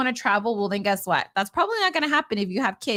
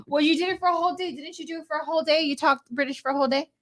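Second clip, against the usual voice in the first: teasing; 6 semitones higher, faster than usual. Real, not acted. Teasing about British accent.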